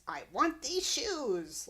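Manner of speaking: high, slow, loud Wicked Witch cackle-voice. Retold or imitated. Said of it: "In a high-pitched witch voice".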